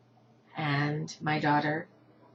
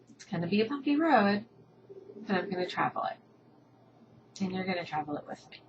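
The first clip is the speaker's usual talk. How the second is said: getting emotional; 3 dB louder than usual. Real, not acted. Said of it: "sorry for getting a little emotional".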